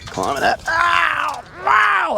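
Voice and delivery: sudden high yelp of pain. Real, not acted. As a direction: cry out as it hurts. Hurting himself climbing.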